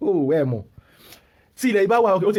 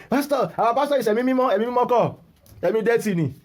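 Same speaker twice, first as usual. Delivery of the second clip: lightly imitated church member, pitched up; mock devout follower; 6 semitones higher than usual. Mimicking followers who call their pastor holy, mildly mocking high voice. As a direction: mimic a pastor's defender in a higher voice.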